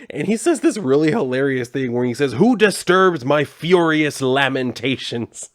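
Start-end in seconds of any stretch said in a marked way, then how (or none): 2.3-5.5 slow, hammed-up brooding villain boom; lightly voiced grand villain, drawn out; a hint of a theatrical demon lord; dramatic villain. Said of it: "So dramatic".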